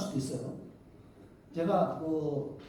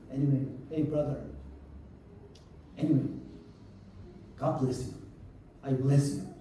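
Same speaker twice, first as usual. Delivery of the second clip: low, measured retold blessing; calm blessing; 5 semitones lower, 5 dB quieter, much slower than usual. Preacher retells blessing the man who hit him, calm. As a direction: bless him gently, with pauses.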